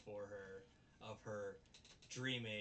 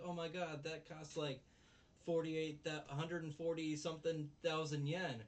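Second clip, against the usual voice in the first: mock dismay; 6 semitones higher, 5 dB louder than usual. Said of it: "She's like".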